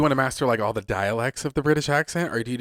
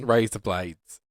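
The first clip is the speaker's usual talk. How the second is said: Australian accent; 2 semitones lower, much slower than usual. Shown as a demonstration. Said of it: "It's the same thing".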